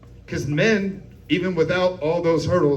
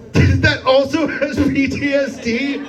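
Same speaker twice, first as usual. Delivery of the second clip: high, loud disbelieving yell; incredulous shout; 7 semitones higher, 4 dB louder, slower than usual. Real, not acted. Comic yelling in disbelief at the veteran's dog. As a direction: blow up in disbelief at the punchline.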